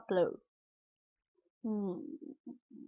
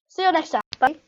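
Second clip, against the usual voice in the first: bright, raised, quick goodbye; upbeat sign-off; 4 semitones higher, 4 dB louder, faster than usual. Shown as a demonstration. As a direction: toss off a cheery outro. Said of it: "the correct bye".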